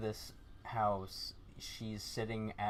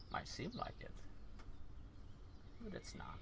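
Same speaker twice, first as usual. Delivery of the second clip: fortune teller; 12 semitones higher, 11 dB quieter than usual. Acted. Fortune teller NPC reply.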